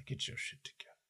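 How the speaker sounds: whispered pep talk, no voice; whispered self-command. Real, not acted. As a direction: hiss it to yourself under your breath. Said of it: "Gotta do some goddamn breathing exercises".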